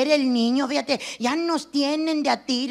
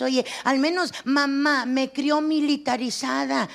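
ordinary talk, nothing marked

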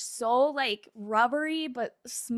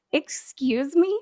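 slow, louder stunned question; louder, slow mock outrage; shocked disbelief; 4 semitones higher, 5 dB louder, slower than usual. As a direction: drag it out in disbelief. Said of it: "And I'm just like".

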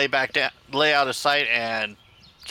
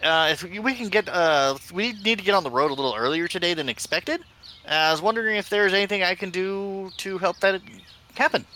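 pitched-up, eager little gnome; high gnome voice; 6 semitones higher than usual. Acted. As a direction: talk up high as a small, polite gnome. Gnome character pleads with guard.

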